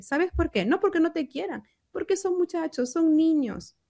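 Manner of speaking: pitched high, urgent appeal to the parent; passionate plea. Acted. Psychologist urging a mother to spare her child, high passionate plea. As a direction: plead with the mother for the child's sake.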